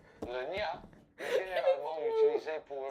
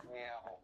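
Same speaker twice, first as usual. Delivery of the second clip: kitten voice; 3 semitones lower, 7 dB quieter than usual. Pretend. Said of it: "remiauler comme une petite chatte".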